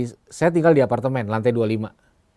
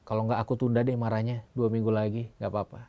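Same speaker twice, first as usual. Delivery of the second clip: put-on politely angry child; 2 semitones lower, 4 dB quieter than usual. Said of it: "Dia bilang".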